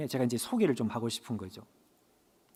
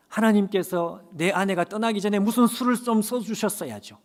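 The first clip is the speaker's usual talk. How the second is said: lightly heated accusing complaint to God; resentful complaint; 3 dB louder than usual. Retold or imitated. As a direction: grow a little louder with each grievance. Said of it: "점점 더 원망의 말이". (하나님께 점점 격해지는 원망)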